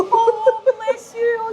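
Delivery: high-pitched, softhearted sympathy; tender, high-pitched coo; sympathetic cooing. Real, not acted. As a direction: coo it, touched by their story. Touched by speaker's early English story.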